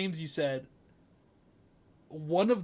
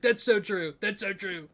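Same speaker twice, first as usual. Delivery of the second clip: higher, mock-amused host agreeing; Jimmy Fallon laughing; 4 semitones higher than usual. Host reacts to a horse's neigh, hammed-up amused agreement. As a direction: imitate a host tickled by everything. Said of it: "he just starts laughing uncontrollably".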